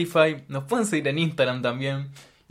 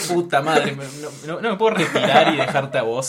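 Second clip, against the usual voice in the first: gasping for air; 3 semitones higher, 8 dB louder than usual. Real, not acted. Cracking up at a failed joke.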